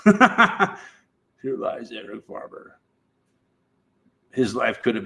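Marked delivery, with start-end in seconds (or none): 0.0-2.8 mock epitaph.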